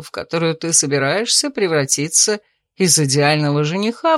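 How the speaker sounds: mocking. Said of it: "насмешливо спросил Томин".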